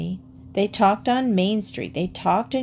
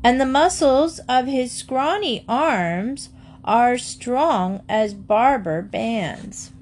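schoolboy jeer, higher and sing-song; a boy yelling the rhyme past the shop; mock yelled taunt; 4 semitones higher, slower than usual. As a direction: tease the blacksmith like a cheeky boy. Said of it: "any boy who passed the blacksmith shop always yelled".

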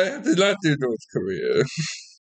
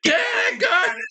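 shouted phrase. Pretend. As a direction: bellow it like a madman. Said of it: "Crack on!".

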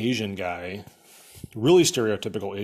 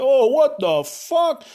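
high, drawn-out exaggerated outrage; hammed-up cry of disbelief; mock outraged yell; 13 semitones higher, 7 dB louder, much slower than usual. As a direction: imitate a dazed hero loudly protesting. Hero reacts to being hit.

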